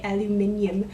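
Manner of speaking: put-on British pronunciation of "aluminium"; British accent. American vlogger pretending to be British, British accent. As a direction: say "aluminium" like a Brit. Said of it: "If I was British".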